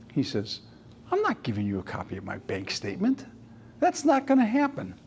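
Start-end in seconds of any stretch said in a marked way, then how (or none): 1.1-4.9 stubborn dad. Retold or imitated. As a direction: lightly voice the dad's flat no. Dad refuses the bank statement.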